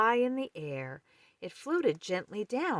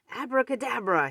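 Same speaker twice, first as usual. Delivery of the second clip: higher, loud magic word; cried out; 6 semitones higher, 6 dB louder, faster than usual. Acted. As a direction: cast the spell with flair. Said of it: "he cried".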